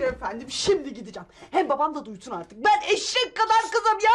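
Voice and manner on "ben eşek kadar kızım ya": higher-pitched indignant protest; raised voice. Acted. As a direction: raise your voice in exasperation. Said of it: "Sus, bağırma".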